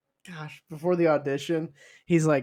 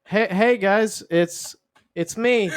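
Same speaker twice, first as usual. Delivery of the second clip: higher, eager game-character greeting; upbeat Mario entrance; 5 semitones higher, 3 dB louder, slower than usual. Acted. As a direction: announce yourself as a cheery character. Actor enters as Mario.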